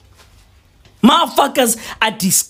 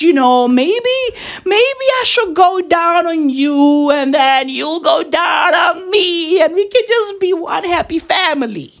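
a lightly voiced side piece, higher and sing-song; a mild mock of the side piece pitching a throuple; 5 semitones higher than usual. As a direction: mimic her sweet suggestion in a higher voice. Mocking the side piece's words.

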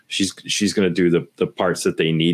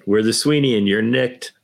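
Sweeney catchphrase; 4 semitones higher than usual. Retold or imitated. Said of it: "I'm still a fan of the Sweeney".

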